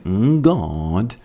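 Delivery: a light British "Mm, God"; British mannerism. Retold or imitated. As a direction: toss off "Mm, God" like a Fry and Laurie Brit. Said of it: "like saying".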